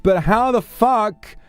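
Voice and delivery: a real wail of dismay at her looks; exasperated squeal. Real, not acted. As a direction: screech it in comic despair. Comic despair about looks.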